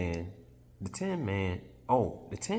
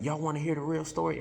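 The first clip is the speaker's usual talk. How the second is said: cat offering the story; 9 semitones higher, faster than usual. Retold or imitated.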